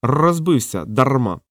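slow, lightly voiced parrot explaining; a hint of a thoughtful parrot. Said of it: "задумався і пояснив".

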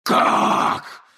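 whispered creature shout. Acted. Creature demanding.

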